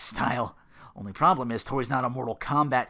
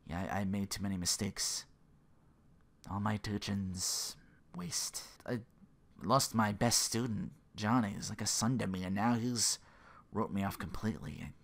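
mock despair; 4 semitones lower, 5 dB quieter than usual. Kreese breaking down in prison.

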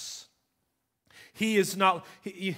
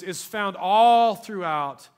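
slow and much louder; slow emphasis; 8 dB louder, slower than usual. Acted. Preacher to congregation, slow and loud. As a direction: stretch and push the words.

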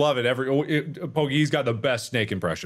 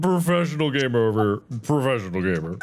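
mocking; 2 semitones higher, faster than usual. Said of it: "Hear that, Deshaun?".

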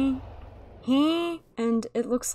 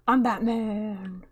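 Batman impression; 4 semitones lower, slower than usual. Groot and Batman bit.

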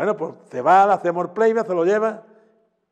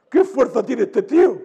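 slow, higher, louder, imitated astonishment; amazed exclamation; 7 semitones higher, 7 dB louder than usual. Guitarist quoting a singer's amazement, imitated loud astonishment. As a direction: retell the marvel with wide-eyed amazement. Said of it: "me decía".

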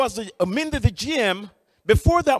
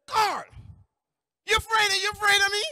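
acted high-pitched challenge; hyped-up supervisor; 10 semitones higher, faster than usual. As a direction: confront the worker in a raised, hyped-up boss voice. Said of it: "this hyped up person".

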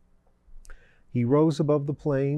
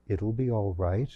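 reassuring; 3 semitones lower, 3 dB quieter than usual. A narrator's reading. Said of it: "reassured the demon priest".

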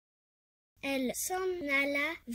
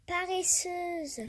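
scornful; 5 semitones higher, slower than usual. Acted. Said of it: "lui lança-t-elle".

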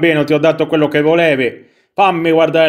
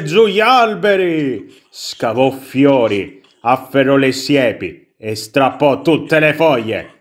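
storybook reading with drawn-out dramatic words; theatrical story narration. Acted. Player reads how the prince ruins the garden, dramatic storybook narration. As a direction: act up the tale while reading aloud. Legge la storiella.

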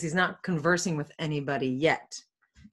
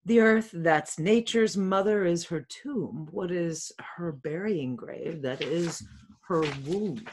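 measured Shakespearean read-aloud; verse reading; slower than usual. Acted. Friar Lawrence talking to himself at dawn, measured verse reading. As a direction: read the rhymed verse with deliberate phrasing.

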